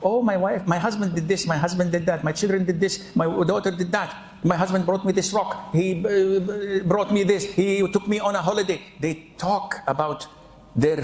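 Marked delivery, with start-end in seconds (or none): 0.0-8.8 lightly mocked chit-chat, pitched up; chit-chatting women. Women chatting together about husbands and children, lightly imitated chit-chat. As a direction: rattle on like women swapping family news. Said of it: "what do they chit-chat about".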